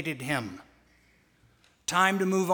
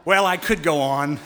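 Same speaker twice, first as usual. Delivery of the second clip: laughing; 7 dB louder than usual. Real, not acted. Laughs after call and response.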